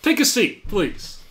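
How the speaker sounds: put-on commanding old woman; old gang boss. GM voices Miria Horn.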